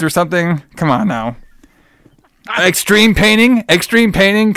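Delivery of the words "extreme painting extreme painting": high, slow, drawn-out hype pitch; mock hype. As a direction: sell it like an extreme nineties brand name. Pitches a nineties-style company name.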